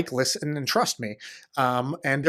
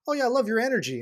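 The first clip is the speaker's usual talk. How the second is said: gushing fan; 8 semitones higher, faster than usual. Retold or imitated. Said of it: "people I work with are always like".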